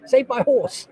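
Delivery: high, slow, hammed-up cry of a woman in an old ad; retelling a silly ad, mock panic, high and slow; mock panicked lady. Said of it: "And it's like".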